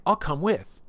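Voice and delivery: lightly voiced goblin barbarian, blunt and keen; eager goblin Twitch. Goblin Twitch tells Hanlon he's coming too, lightly voiced eager goblin.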